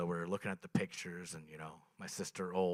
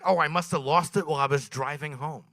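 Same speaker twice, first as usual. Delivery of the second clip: sister's casual excuse, higher and louder; lightly voiced sister; 6 semitones higher, 8 dB louder than usual. Comic voices his sister explaining the lost turkey, breezy. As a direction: play the airy sister.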